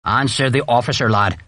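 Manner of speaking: restrained growl in character; understated sergeant's growl; growled order. A narrator's reading. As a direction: prompt the lad like a stern sergeant. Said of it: "Harper growled".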